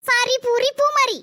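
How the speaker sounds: slow, sing-song mock sorry; mocking apology. Sister forced to apologise to the younger one, mocking. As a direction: drag out a grudging, teasing apology.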